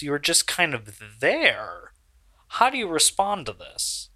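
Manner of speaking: halting, slightly formal questioning; a hint of TV interviewer; lightly voiced interviewer. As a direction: put a careful question like a backstage reporter. Game master voices backstage interviewer.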